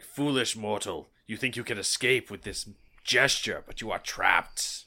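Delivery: menacing evil overlord; cold rasping evil emperor. Acted. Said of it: "Be a little bit darker".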